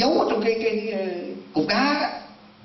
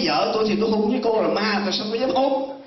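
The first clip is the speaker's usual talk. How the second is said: high-pitched mock protest; retold indignant refusal; 5 semitones higher than usual. Husband refuses to kiss a ghost.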